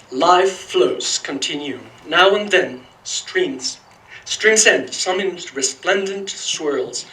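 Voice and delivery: slow, deliberate poetry recital; poem reading. Acted. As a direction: read each image slowly, savoring it. Reads his mentor's poem aloud.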